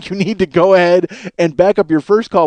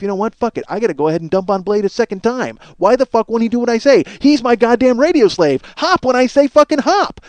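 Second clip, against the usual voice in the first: building indignation; 4 semitones higher than usual. Retold or imitated. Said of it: "Cody says to himself".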